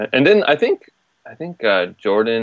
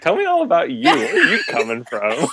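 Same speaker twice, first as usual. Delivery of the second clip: put-on British accent flirt; 3 semitones higher than usual. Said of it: "Would his accent just be like".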